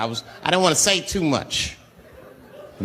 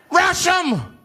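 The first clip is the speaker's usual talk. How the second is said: rallying yell; 2 semitones higher than usual. Acted. Man urging charge.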